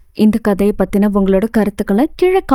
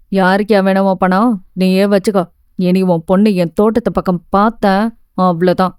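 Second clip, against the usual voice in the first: a lightly lowered, mildly angry gardener; 3 semitones lower than usual. Acted. Gardener complaining to the mother about her daughter, mildly angry lowered voice. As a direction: complain at the door, a hint of grumbling anger. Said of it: "என்று எச்சரித்துவிட்டு".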